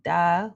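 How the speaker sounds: "da" said on a sigh. Shown as a demonstration. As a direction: let "da" fall out on a relaxed sigh. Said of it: "while you're sighing".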